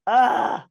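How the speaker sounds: exasperated "ugh"; pained groan. Real, not acted. Pained reaction to a tough pick.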